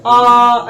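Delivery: long drawn aa, held out; long vowel aa. Shown as a demonstration. Teacher demonstrating a long vowel to students, drawn-out aa. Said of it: "कैसे बोलते हैं?".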